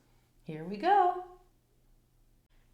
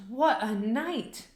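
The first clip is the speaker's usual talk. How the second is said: muttering mole; 4 semitones higher than usual. A narrator's reading. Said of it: "Mole mutters".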